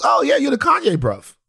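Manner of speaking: playful impression of a British greeting; imitating Daniel. Daniel greeting him at the party, mock London accent. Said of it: "And Daniel goes".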